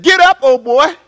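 put-on easygoing, offhand "Get up, old boy" said lightly; casual wrong way. Shown as a demonstration. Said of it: "he didn't say it like that".

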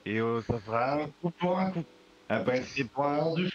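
put-on high, drunken slurred plea; drunk doctor. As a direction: plead through a locked door, tipsy. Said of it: "quelques coups dans le nez".

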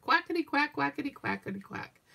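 a hint of flustered ducks; duck voices. Reading to granddaughter, the ducks quack off in a flutter, light duck voice.

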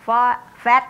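lightly chanted classroom drill, pitch lifting; rote recitation. Shown as a demonstration. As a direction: recite it like a primary-school drill. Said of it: "เขาก็จะให้เราท่องเลย".

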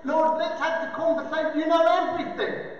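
mildly exasperated concession; acted mild impatience; frustrated. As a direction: argue back with a touch of frustration. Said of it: "He's now frustrated".

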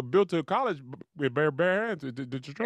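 stammering over the first sounds; Boo Capone. Retold or imitated. Teasing friend channeling someone while bragging on Keisha, stammering impression. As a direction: trip and stutter through the words. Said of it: "I was channeling Boo Capone".

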